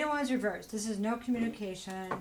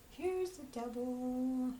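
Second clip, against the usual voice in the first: slow, drawn-out, higher "Here's the devil."; dramatic reveal; 4 semitones higher, much slower than usual. Shown as a demonstration. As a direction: stretch out "Here's the devil" slowly for effect. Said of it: "And here's the devil".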